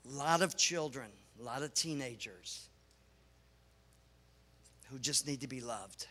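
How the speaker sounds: low, soft, unhurried appeal; tender. Real, not acted. Preacher speaking of children who need love, tender. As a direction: let it drop gently and sincerely.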